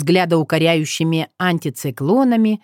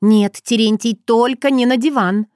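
commanding; 5 semitones higher than usual. Acted. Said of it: "особым приказным голосом".

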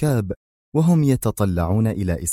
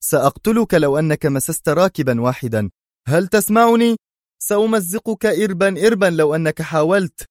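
screaming threat; 9 semitones higher than usual. A narrator's reading. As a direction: yell a furious threat. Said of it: "صرخ أدهم". (صراخ تهديد غاضب)

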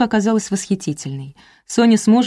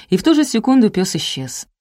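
ordinary delivery

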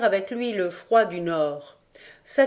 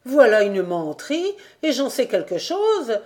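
sharp retort; 4 semitones higher, 3 dB louder than usual. Acted. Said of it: "riposta la vieille femme".

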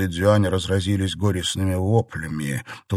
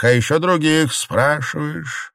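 smirking; 8 semitones higher than usual. A narrator's reading. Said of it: "усмехнулся монах".

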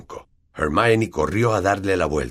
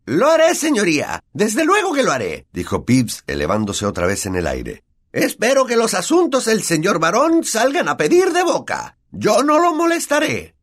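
honeyed ghost; 4 dB louder than usual. A narrator's reading. Peeves grovels to the invisible baron, high and honeyed. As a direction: fawn over him sweetly, pitched high.

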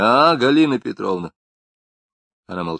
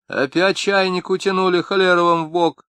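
higher, cursing woman's voice; kitchen scolding; 9 semitones higher, 4 dB louder than usual. A narrator's reading. Wife curses neighbours over the kettle, high.

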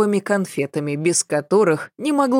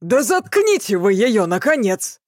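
hoarse booming shout; 4 semitones higher than usual. Acted. Angry roommate yelling at Petrovna, hoarse. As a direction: bellow at the old woman, hoarse. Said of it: "хриплым трубным голосом".

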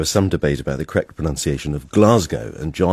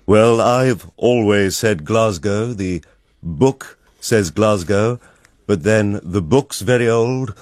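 imitating Peter; 6 semitones higher, 5 dB louder, much slower than usual. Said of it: "and Peter said".

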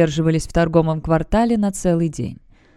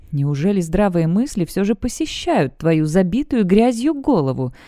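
sneering gloating dark voice. Acted. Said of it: "чванливым тоном произнёс некромант".

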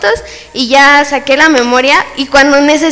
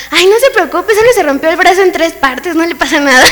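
higher-pitched, jokey doctor dismissing worry; mock-casual comfort; breezy reassurance; 3 semitones higher than usual. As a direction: make light of it, laugh creeping in at the end. Doctor breezily downplays broken arm.

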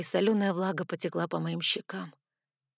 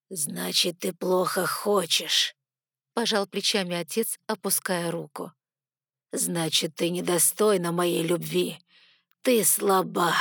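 icy father; 3 dB louder than usual. Acted. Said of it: "лёд в отцовском голосе".

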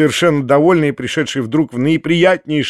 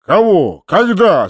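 louder, higher alarmed questions; jolted, loud demand; startled shout; 6 semitones higher, 4 dB louder, slower than usual. A narrator's reading. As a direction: fire out two startled cries. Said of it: "закричал толстяк, весь встрепенувшись".

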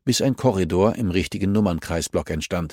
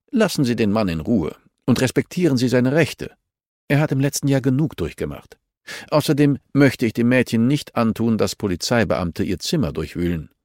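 firm, raised-pitch rebuke; lightly voiced stern official; 3 semitones higher than usual. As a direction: tell her off, a hint of authority. (leicht gespielter strenger Zurechtweiser)

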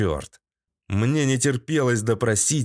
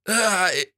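short high "ow" of pain; high acted yelp; 8 semitones higher than usual. A narrator's reading. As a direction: yelp as the dart hits. Hit by another dart.

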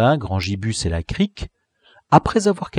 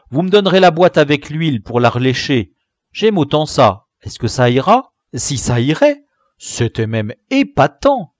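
put-on cheerful boy; 3 semitones higher, 4 dB louder than usual. Tigibus cheerfully accepts the tin.

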